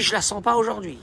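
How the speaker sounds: put-on high, tense little-baby monologue, building; anxious baby. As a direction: play a baby fretting aloud, pitch climbing. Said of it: "qui te dit".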